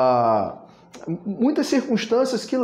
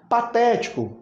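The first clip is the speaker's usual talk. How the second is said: "Patético" with a raised, strong "té"; "Patético" stressed as pa-TÉ-ti-co; stress on antepenultimate; 5 semitones higher than usual. Shown as a demonstration. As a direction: hit "té" in "Patético". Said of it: "antepenúltima".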